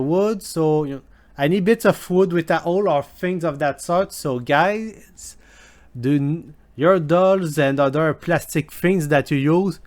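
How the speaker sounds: intern put on in a hammed-up Scottish accent; badly faked Scottish brogue; fake Scottish accent. Intern reading disgusting questions to listeners, fake Scottish accent. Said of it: "fake Scottish accent".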